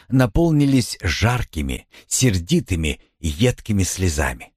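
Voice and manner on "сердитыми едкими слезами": ordinary delivery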